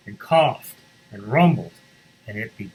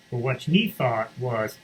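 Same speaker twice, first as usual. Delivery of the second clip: ordinary delivery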